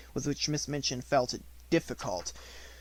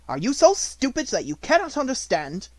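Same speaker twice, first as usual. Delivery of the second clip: much louder, higher berating; harsh scolding; 8 semitones higher, 9 dB louder than usual. A narrator's reading. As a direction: tear into her coldly. Minchin berates Sarah.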